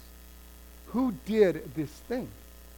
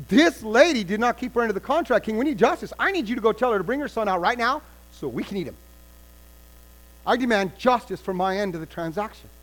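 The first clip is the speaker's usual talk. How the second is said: louder, fast demand for justice; indignant demand; 4 dB louder than usual. Acted. Woman demands the king enforce her deal, louder. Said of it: "She's like".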